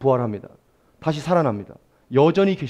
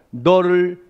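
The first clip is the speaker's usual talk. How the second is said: slow, deliberate reading; slow, tender 너를 잠잠히 사랑하신다; slow emphasis; 4 semitones higher, much slower than usual. Shown as a demonstration. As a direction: savour each word slowly. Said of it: "제일 중요한 말이".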